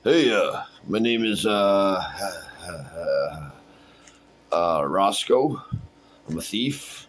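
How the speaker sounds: lightly voiced hesitant thief; different character voice. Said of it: "I'll do a different voice".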